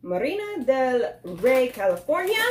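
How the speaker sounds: Spanish-accented food and place names. Real, not acted. Reviewer reading Spanish taco names to viewers, Spanish accent. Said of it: "I get the accent when I say things in Spanish".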